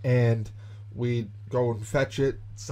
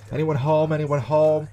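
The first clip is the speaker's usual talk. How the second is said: calling out, pitched up; cops at the door; 4 semitones higher, 3 dB louder than usual. Retold or imitated. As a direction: imitate police calling into a house. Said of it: "Cops come knocking".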